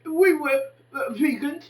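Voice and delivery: put-on loud preachy lecture to a young woman; lecturing loudly. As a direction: lay it on her like a sermon, full voice. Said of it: "I said to her".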